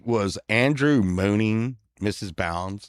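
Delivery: low, slow cop voice; mock-official questioning; amused police officer. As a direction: ask it deliberately, like a cop hiding amusement. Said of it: "the cop was even smiling. He's like".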